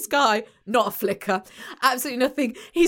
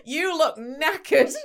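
laughing tease; slower than usual. Real, not acted. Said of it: "teasing co-host".

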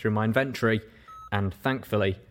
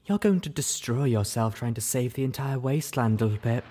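moaning; 3 semitones higher than usual. Acted. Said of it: "Velvet Remedy moan".

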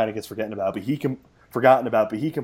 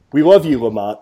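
loud shout-out; 9 dB louder than usual. Real, not acted. Calling out to player.

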